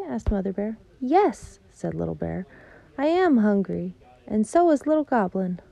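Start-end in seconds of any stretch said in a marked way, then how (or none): 1.0-1.6 little cub voice. Acted. Little Bear answers eagerly. 3.0-5.6 little cub voice. Acted. Little Bear voiced by reader.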